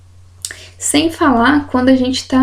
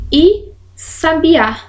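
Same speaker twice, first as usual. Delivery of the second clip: slow "sabiá", higher pitch, with the weight on the final "á"; stress on the last syllable; 6 semitones higher, much slower than usual. Shown as a demonstration. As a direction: stretch "sabiá" and land hard on the "Á". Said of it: "que é uma oxítona".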